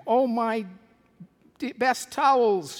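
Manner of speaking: high, loud, slow lament; acted wail of dismay; dismayed outcry. Employer finds her best towels ruined, dismayed outcry.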